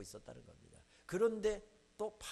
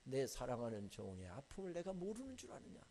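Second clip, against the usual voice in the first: God rebuking. Retold or imitated. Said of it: "책망하시더라고요".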